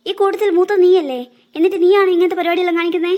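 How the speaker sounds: loud, sharp scolding; scolding mother. Acted. Mother scolding her eldest daughter, loud and angry. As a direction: give it to the eldest, loud and cross.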